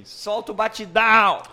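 high-pitched mock yell; imitated crowd shout. Host retelling a club crowd's demand to the DJ, mock shout. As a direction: call out like a rowdy club crowd. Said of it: "a galera gritou assim".

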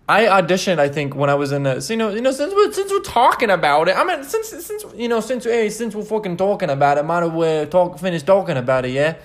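playful put-on Jamaican voice; Jamaican accent. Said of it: "I don't know what accent that was".

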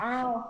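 demonstrated moo at cows; short playful moo. Shown as a demonstration. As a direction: moo like you're calling to a cow. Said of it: "I love mooing to cows".

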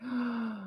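soft, drawn-in gasp; imitated intake of breath; mock shocked gasp. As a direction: gasp as if scandalised. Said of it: "some people are like".

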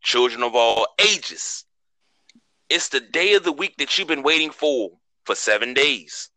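booming ringmaster intro, slow. Acted. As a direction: announce it like a circus ringmaster. Show opening announcer intro.

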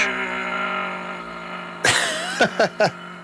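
droning plane engine sound; airplane noise. Retold or imitated. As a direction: hum like a passing aeroplane. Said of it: "That was my aeroplane impression".

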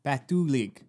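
Patulig with an even, falling Korean-style stress; Korean name said. Shown as a demonstration. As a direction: say Patulig carefully, falling at the end. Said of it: "Say, say it with me".

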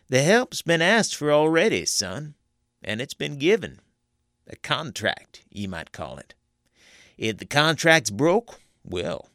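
high, loud and threatening hill-country conjurer; a conjurer scaring a young soldier into line; menacing backwoods conjurer. A narrator's reading. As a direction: warn him the pact can't be broken. Teague threatens about the pact.

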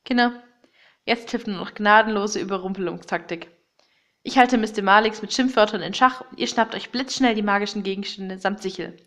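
ordinary delivery

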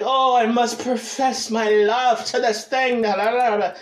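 slow, hammed-up declaration of love; mock-passionate confession with a scat trail-off. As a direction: profess it like a lovesick crooner, drawn out. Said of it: "Sometimes I get real passionate".

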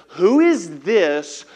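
slow, booming rebuke; God rebuking Job, slow and loud. Acted. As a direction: thunder it down slowly. God breaks the silence with.

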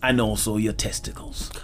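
slow, deliberate alien demand; alien abductor. Acted. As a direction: state the alien's demand slowly. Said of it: "my alien voice".

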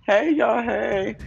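high, loud, cheerful hey; excited greeting. Real, not acted. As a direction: greet them with a burst of energy. Greeting podcast listeners.

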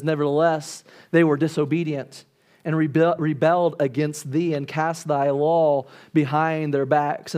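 measured, deliberate King James reading; scripture reading. Acted. Preacher reading Nehemiah to the congregation, solemn and measured.

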